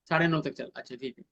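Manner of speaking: low, soft acknowledging murmur; attentive listener. Shown as a demonstration. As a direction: take in the answer quietly, voice dropped low. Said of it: "तो आप उससे question पूछ रहे हैं".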